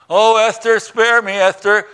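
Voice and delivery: hammed-up plea for mercy, loud and high; pleading. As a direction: beg for your life. Haman begs the queen.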